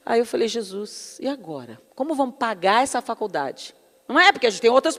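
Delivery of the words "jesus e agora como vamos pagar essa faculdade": hushed worried prayer. Retold or imitated. Retold worried prayer to Jesus.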